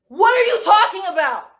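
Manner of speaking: mock-confronting question, pitched high; indignant challenge. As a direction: act out calling someone out. Acted challenge to those attacking her.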